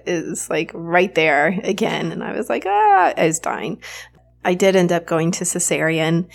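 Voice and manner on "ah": high, drawn-out "ah"; a brief high cry of pain, retold. Mother recalling the pain coming back in labor, retold pained cry.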